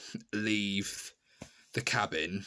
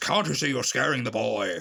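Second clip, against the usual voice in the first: loud shout, slowing down at the end. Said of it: "And he just shouts".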